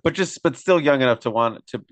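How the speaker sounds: ordinary talk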